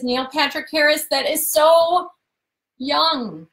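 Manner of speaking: put-on stretched-out incredulous kid voice; kid's disbelief. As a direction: drawl it like a shocked tween. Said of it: "My twelve-year-old says".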